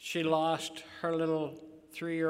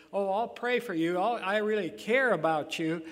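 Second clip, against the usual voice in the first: insincere caring; 3 semitones higher, 6 dB louder than usual. Retold or imitated. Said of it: "people who said".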